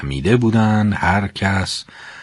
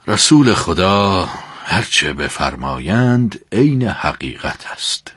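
deep faith; 6 semitones lower than usual. Acted.

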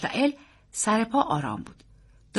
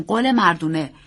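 adult voice, firm and falling; reassuring uncle; 5 dB louder than usual. Acted. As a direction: grant the child his promise. Uncle echoes boy's promise.

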